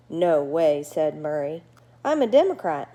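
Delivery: a friendly bat gabbing at his new neighbor; chatty bat Murray. Acted. Murray misunderstands nocturnal.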